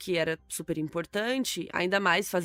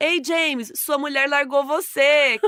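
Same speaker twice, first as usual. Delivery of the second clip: put-on shout, higher and louder; 7 semitones higher, 7 dB louder than usual. Retelling how a friend shouted news while waving a paper: imitating someone shouting. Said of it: "sacudindo um papel assim e gritando".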